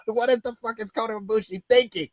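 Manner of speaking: laughing disbelief. Retold or imitated. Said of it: "messaging each other like".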